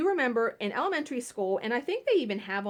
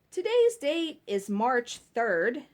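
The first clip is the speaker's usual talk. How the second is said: slow school intercom announcement; slow mock morning announcement; announcement read; 3 semitones higher, slower than usual. Shown as a demonstration. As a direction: read it like a nervous kid on the PA. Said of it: "You're supposed to say".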